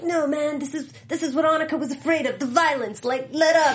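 put-on South African accent. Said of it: "Good South African accent".

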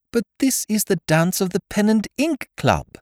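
high helpless bleat. Acted. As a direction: bleat the protest weakly. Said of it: "bleated Mister Prout".

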